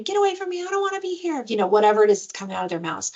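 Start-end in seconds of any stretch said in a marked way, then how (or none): 0.0-1.5 imitated yelling. Child tells parent to back off, mock yelling. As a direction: imitate a kid yelling in a raised pitch. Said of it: "they're just yelling".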